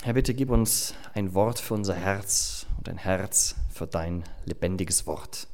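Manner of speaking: ordinary talk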